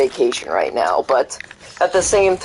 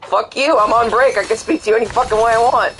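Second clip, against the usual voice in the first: higher, half-mock angry comeback, faster at the end; telling off a stranger in a half-mock higher voice; mock defiance; 4 semitones higher than usual. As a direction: toss off a petty defiant retort. Imagined comeback to rude stranger.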